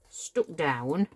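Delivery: put-on Yorkshire accent, rising at the end; Yorkshire lass accent. Crafter pressing card until it is stuck, in a mock Yorkshire accent. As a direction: slip playfully into broad Yorkshire. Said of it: "Yorkshire lass accent then".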